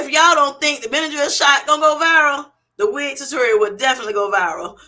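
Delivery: reading it back while cracking up; laughing. Retold or imitated. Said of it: "she said".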